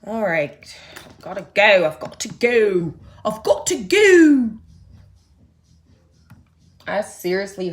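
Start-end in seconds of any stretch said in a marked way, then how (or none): 0.0-2.9 hurried exit. Acted. Hurrying off camera. 3.2-4.5 higher, louder and slow "I've got to go"; mock-dramatic departure; urgent exit. Hurrying off camera, again louder.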